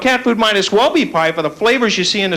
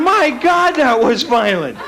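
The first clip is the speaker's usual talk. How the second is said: shocked onlooker; 2 semitones higher, slower than usual. Retold or imitated. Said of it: "You'd be out there going".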